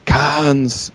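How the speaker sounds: mock Japanese accent on Cans. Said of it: "trying to do a Japanese accent".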